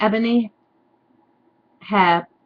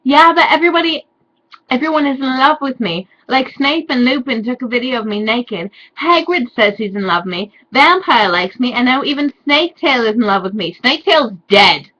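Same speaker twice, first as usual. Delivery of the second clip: whiny heroine; 4 semitones higher, 4 dB louder than usual. Acted. Reading Ebony's whiny lines.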